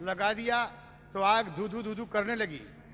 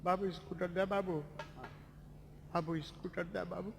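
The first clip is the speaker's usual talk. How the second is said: fading plea; 3 semitones lower, 3 dB quieter than usual. Acted. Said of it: "और यही कह रही है".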